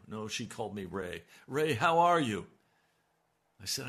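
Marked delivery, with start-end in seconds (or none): 1.5-2.5 wife's greeting. Retold or imitated. Wife asking after him.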